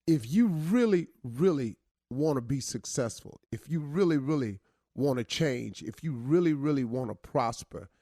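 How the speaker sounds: rising on each if you really, landing on the rest; preaching refrain. Acted. Host preaching to listeners about success. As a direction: build it like a sermon, line by line.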